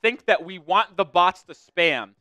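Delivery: exasperated rant. Real, not acted. Streamer scolding his chat about spam bots, exasperated. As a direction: vent at the viewers who blame you.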